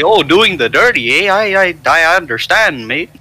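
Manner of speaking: hammed-up, lilting Canadian neighbor; badly faked Canadian with a singsong swing; attempted Canadian accent. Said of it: "I don't know how to do a Canadian accent".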